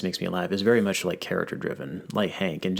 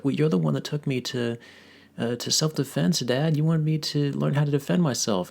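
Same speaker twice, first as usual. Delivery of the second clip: put-on much higher whiny kid protest; Bobby voice; 9 semitones higher than usual. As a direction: talk back to Dad. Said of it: "Bobby's like".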